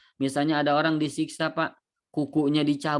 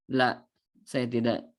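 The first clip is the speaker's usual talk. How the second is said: calm pious man; 4 semitones lower, slower than usual. Acted. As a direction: gently turn down the offer. Pious man refuses again. (orang saleh menolak dengan pelan dan rendah)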